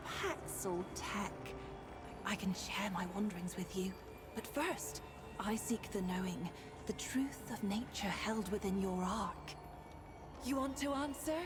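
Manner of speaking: put-on bubbly sorority girl; Valley Girl accent. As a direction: ethereal spirit with Valley Girl lilt. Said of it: "why do you have, like, a Valley Girl accent?".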